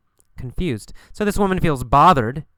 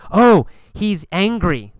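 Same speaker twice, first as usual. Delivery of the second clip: slightly acted, higher and louder, drawn-out reaction; lightly voiced onlooker; 5 semitones higher, 5 dB louder, slower than usual. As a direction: lightly act a slow exclaiming bystander.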